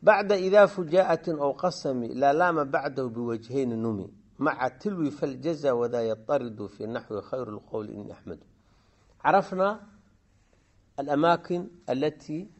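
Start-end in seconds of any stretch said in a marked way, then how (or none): 0.0-8.4 teacher reciting memorised verse; verse recitation. Shown as a demonstration. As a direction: recite the grammar poem line by line, falling away at the end. Recites the grammar poem's verses.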